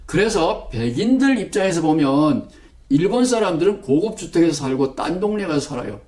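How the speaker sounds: ordinary delivery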